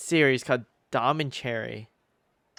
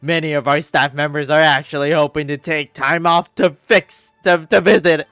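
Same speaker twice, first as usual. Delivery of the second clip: lightly voiced upbeat character; Siege Wing voice; 13 dB louder than usual. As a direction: read the game line brightly. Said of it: "I'll do the Siege Wing voice".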